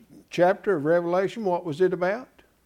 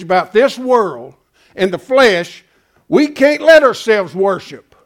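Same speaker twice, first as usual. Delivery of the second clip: louder impassioned pulpit voice; preaching diatribe; 5 dB louder than usual. Real, not acted. Pastor scolding churchgoers for bringing worldly baggage, impassioned and louder. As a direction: build the diatribe and press it home. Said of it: "a little off course on my diatribe there".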